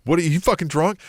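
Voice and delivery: play-acted outrage; acted exasperation. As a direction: demand answers like you can't believe this guy. Acted confrontation of a wrestler.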